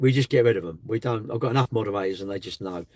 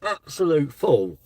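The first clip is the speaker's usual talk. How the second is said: higher, louder, slow scold; mock-scolding a troll, raised voice; exasperated scolding; 6 semitones higher, 6 dB louder, much slower than usual. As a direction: tell the fool off, pitched up. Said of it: "I'm like".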